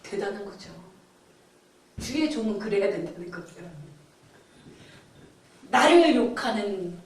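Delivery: normal talking voice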